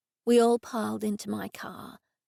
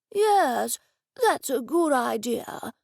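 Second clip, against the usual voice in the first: put-on slow, shaky old man voice; the old office owner welcomes Edison, slow and quavering; elderly man; 2 semitones higher, slower than usual. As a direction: speak like a frail old gentleman. Old Mister Dennison voiced.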